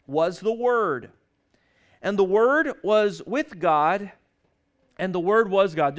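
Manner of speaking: slow, weighty stress on Word; preacher reciting John one one; solemn scripture reading. Shown as a demonstration. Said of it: "reciting scripture slowly".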